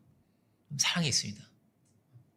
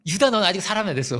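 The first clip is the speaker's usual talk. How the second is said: louder hammed-up telling-off; mock nagging; 5 dB louder than usual. Jesus imagined telling off Judas, mock nagging. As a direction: play at scolding, half in jest. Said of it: "막 체크하고 잔소리하고".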